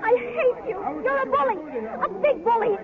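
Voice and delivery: high, pouting schoolgirl jeer at a bully; sulky kid calling him names, pitched well up; childish taunt. Acted. Girl taunting the boy she resents.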